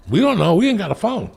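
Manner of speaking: high-pitched mock family voice; clueless fans.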